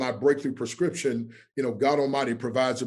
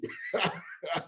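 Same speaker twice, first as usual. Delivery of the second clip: laugh; 6 semitones higher, 5 dB quieter than usual. Real, not acted. Laughs after handing over the floor.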